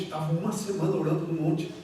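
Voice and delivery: ordinary talk, nothing marked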